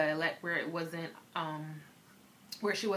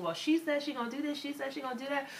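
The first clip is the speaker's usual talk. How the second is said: mock gossip relay; 8 semitones higher, faster than usual. Retold gossip between classrooms.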